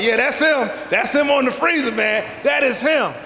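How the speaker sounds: buddy confirming. Retold or imitated.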